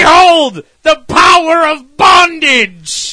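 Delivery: loud, high, drawn-out mock villain boast; grand villain proclamation. Quoting the villain showing off her power, grand mock proclamation. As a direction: proclaim it slowly like a hammy villain.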